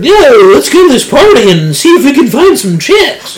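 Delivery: high, loud party bro; hammed-up eagerness to go out; mock party hype. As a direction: hype up your mates mockingly. Mocking un-Peter-like party talk.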